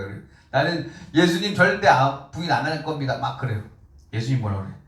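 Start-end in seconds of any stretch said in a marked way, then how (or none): 0.5-3.2 bold vow. Retold or imitated. Peter boldly vows loyalty.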